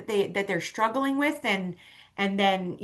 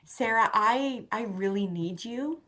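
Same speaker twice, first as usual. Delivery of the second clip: retold sincere plea; 3 dB quieter than usual. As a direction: earnestly appeal to a friend, understated. Acts out sincere plea to friend.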